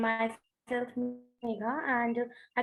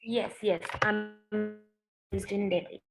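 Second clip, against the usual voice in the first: conference call; 11 semitones higher, 6 dB quieter than usual. Real, not acted. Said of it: "your audio is cutting out".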